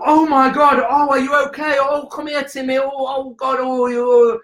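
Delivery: put-on high, gushing "oh my God" over a fallen kid; fussing panicked parent. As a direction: coo and fret like an overanxious mum. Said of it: "the mums and dads that go".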